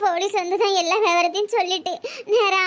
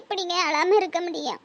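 tearful; 3 dB quieter than usual. Acted. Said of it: "அழாத சுயம்பு".

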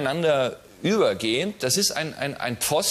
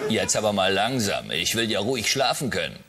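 deep mother voice; 6 semitones lower than usual. Acted. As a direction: lower mother voice, dry. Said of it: "die tiefe Stimme ist die Mutter".

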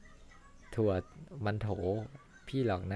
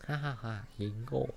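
mocking laugh. Bullies laugh at victim.

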